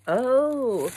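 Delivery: high, loud gasp of delight. Real, not acted. Vlogger opening a bag, loud high gasp. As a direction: gasp at what's inside.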